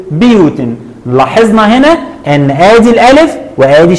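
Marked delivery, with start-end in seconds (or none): 0.1-0.6 بيوت ending in "-tin", "buyūtin"; tanween with kasra. Shown as a demonstration. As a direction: finish بيوت on a crisp "-tin". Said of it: "وعند التنوين بالكسر هقول".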